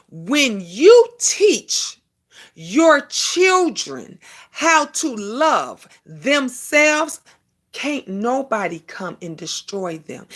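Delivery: very slow preaching delivery. Real, not acted. Preaching to viewers about raising children, slow and weighty. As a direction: lay each word out slowly like a sermon. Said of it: "preaching a little bit".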